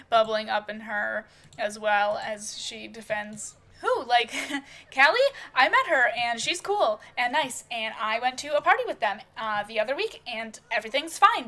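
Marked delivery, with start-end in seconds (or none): 3.8-11.5 forced casual defense, pitch up and louder; defensively keeping cool. Acted. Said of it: "tries to keep her cool".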